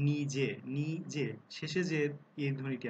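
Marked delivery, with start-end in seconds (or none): 0.1-1.3 drawn-out নিজে with a closed e; স্পষ্ট করে ধীরে নিজে; slow demo word. Shown as a demonstration. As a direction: say নিজে slowly, e closed at the end. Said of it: "কিংবা".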